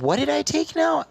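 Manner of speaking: high, exasperated question; accused customer pushing back in disbelief. Retold or imitated. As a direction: throw it back, stunned and fed up. Retold protest to accuser.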